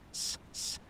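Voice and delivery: short unvoiced "s" hisses; two soft, separate hisses; hissed s sounds. Shown as a demonstration. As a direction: demonstrate sharp sibilance. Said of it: "and I talk like this".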